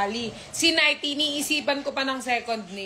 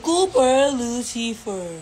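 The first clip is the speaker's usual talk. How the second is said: slow naming; 4 dB louder, much slower than usual. Shown as a demonstration. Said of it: "You say first".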